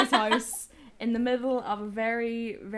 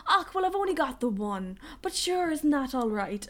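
rural Irish shopkeeper; 4 semitones higher than usual. Retold or imitated. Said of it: "rural Irish attitude".

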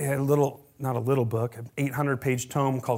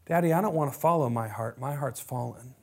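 lowered, pleading prayer voice; humble confession. Shown as a demonstration. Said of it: "This is what authenticity sounds like".

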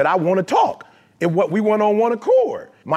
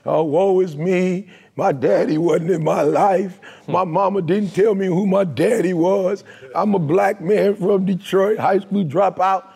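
mock self-pity. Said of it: "My old truth was".

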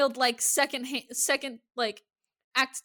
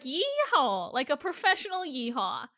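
drawled higher Texan yeehaw; Texas accent; 4 semitones higher than usual. Acted. Describing a cowboy type to co-host, Texas accent.

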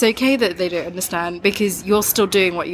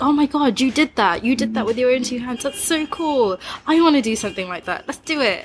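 excited admiration; 5 semitones higher than usual. Retold or imitated. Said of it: "but I'm like".

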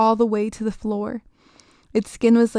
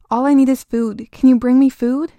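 desperate creature; 3 semitones higher, 8 dB louder than usual. Acted. The creature loudly begging the girl to bring food. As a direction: beg urgently, starving.

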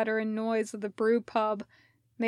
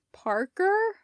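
whispered, rising at the end; whispered question; 9 semitones higher than usual. Acted. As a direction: breathe the name as an unsure question. Courier at door asks.

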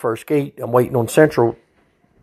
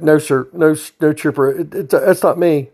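higher, hurried stammering no sir; flustered denial; 4 semitones higher than usual. Retold or imitated. Prisoner protesting to the trooper that the smell isn't his, flustered. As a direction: deny it in a panic.

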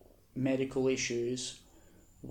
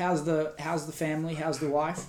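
awkward interviewer; 3 semitones higher, 7 dB louder than usual. Pretend. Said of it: "when we interview Hitler".

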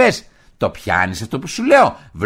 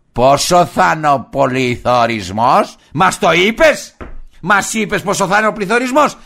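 heated demanding questions; 3 semitones higher, 4 dB louder than usual. Acted. Heated rant at partner.

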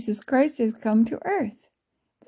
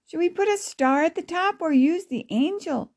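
put-on higher-pitched child's question; questioning girl; 6 semitones higher than usual. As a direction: raise the voice like a girl asking Grammy. Child character asks Grammy.

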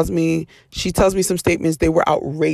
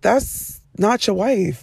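incredulous aside; 2 semitones higher, much slower than usual. Retold or imitated. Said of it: "in my head".

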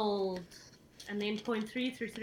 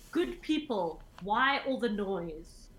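mild formal address; slower than usual. Acted. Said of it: "And I'm going to say".

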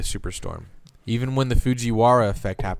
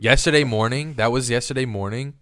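surprised; 3 semitones higher than usual. Real, not acted. Shocked at the timeline.

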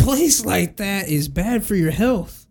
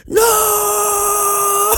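mock yell; 14 semitones higher than usual. Caller's lady shouting no at the collector, laughing mock yell. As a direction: yelp it out through a laugh. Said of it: "the lady was like".

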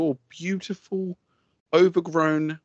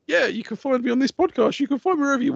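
excited plug; 11 semitones higher, faster than usual. Acted. Enthusiastic plug.

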